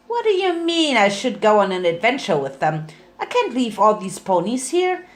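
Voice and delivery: a hint of an excited cartoon pony chatting away; Pinkie's voice. Pinkie chatting to her alligator Gummy, lightly voiced bubbly pony.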